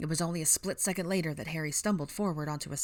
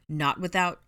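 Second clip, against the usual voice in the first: interrupting; 2 semitones higher, 6 dB louder, slower than usual. Acted. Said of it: "Ron interrupted".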